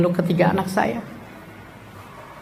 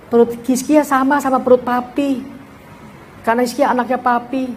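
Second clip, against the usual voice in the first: put-on higher, light child voice, earnest; a small boy proudly showing his father; child's voice; 5 semitones higher than usual. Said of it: "Anak nomor dua, Hizkia, dia datang ke saya". (suara anak kecil yang polos, nada lebih tinggi)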